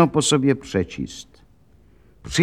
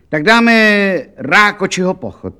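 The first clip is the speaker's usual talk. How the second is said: high-pitched shop assistant voice; saleswoman; 6 semitones higher than usual. A narrator's reading. Saleswoman offering count a march, high-pitched character voice.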